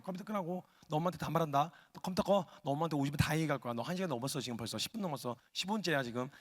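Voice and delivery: low-key, running mock nag; needling nag. Sister needling her gaming brother, nagging on and on. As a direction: keep pestering in an under-the-breath stream. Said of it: "옆에서 계속 간질간질".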